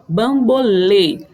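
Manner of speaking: "bambolê" slowly, ending on a closed E. Shown as a demonstration. Teacher showing the circumflex on E, slow closed ending in "bambolê". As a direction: draw out "bambolê" with stress on the narrow final E. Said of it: "o som é fechado".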